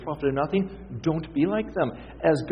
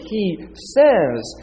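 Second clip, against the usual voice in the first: "says" punched with a strong fall; "says" lifted high, then dropped; stress on SAYS; 4 semitones higher, 4 dB louder than usual. Real, not acted. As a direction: hit "says" loud to mark the tense. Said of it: "He is currently speaking".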